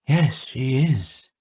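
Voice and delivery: slow, shy admission. A narrator's reading. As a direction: hold back, avoid her eyes. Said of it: "he said shyly".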